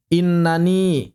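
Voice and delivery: slow "Innani" with separate na and ni; bentuk asli. Shown as a demonstration. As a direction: draw out "Innani", all syllables sounded. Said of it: "Aslinya inani". (lafalkan "Innani" perlahan dengan na dan ni terpisah)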